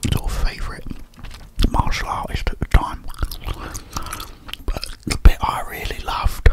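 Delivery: whispering while chewing gum. Real, not acted. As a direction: talk around a mouthful of gum. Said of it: "I'm gonna bung a few of these in my gob".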